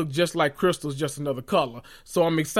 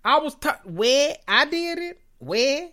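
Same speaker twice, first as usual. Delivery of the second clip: much higher, baffled where me questions; mock bewildered innocence, slowing at the end; confused Crystal; 8 semitones higher, slower than usual. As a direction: play her shocked and lost. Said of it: "Crystal like".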